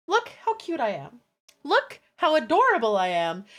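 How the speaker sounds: cutesy plea with swooping pitch; playing cute. Streamer coaxing chat to spoil her, cute and insistent. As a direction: show off how adorable you are.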